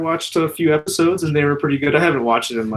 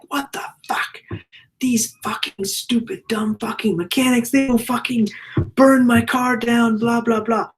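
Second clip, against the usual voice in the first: put-on exasperated Italian accent, much higher voice; thick Italian accent; 10 semitones higher than usual. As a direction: imitate an Italian car owner cursing his mechanics, high-pitched. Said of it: "like, thick Italian accent".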